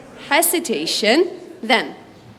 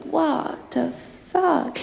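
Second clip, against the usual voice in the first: disbelief; 3 semitones higher, 4 dB quieter, much slower than usual. Retold or imitated. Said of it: "I feel like".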